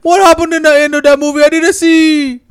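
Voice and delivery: singsong mock Hispanic accent; bad Hispanic accent. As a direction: ham it up in a terrible Hispanic accent. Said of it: "the worst Hispanic accent".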